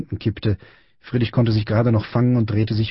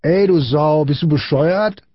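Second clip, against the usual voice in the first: put-on high-pitched indignant boy's yell; yelling after someone; 6 semitones higher, slower than usual. A narrator's reading. Small boy yelling after Friedrich, indignant shout. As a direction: yell an insult after a passer-by. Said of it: "schrie ihm hinterher".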